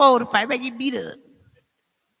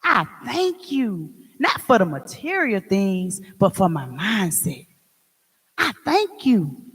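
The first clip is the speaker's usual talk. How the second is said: prayerful thanks; 2 semitones lower, 4 dB quieter, slower than usual. Retold or imitated. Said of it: "I tell 'em".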